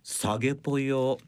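japanese gyaru slang. Acted. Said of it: "令和四年に恥ずかしいです".

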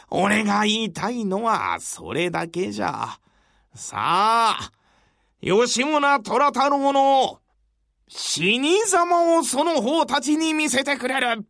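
put-on an old man's last battle cry; defiant old warrior. Yoshimura's final challenge.

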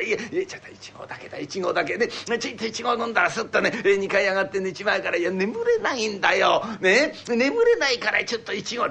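a lightly voiced old man begging; pleading old man. Old man begging his wife for one small cup, lightly voiced. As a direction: wheedle for just one cup.

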